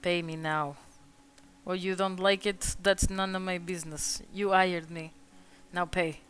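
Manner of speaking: coolly self-righteous, quietly demand what you are owed. Acted. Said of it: "like, self-righteous about it".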